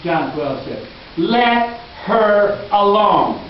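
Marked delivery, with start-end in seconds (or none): 1.2-3.4 slow, each word weighed: "Let her alone"; Jesus defending the woman, slow and firm; slow emphatic command. Acted. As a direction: lean on "Let", drawn out and firm. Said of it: "here's what Jesus said".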